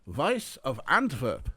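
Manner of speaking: put-on slow, heavily foreign-accented name; Eric Weiss, heavy accent. A narrator's reading. Guest naming himself at the front desk, heavy foreign accent. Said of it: "Oh, a heavy accent".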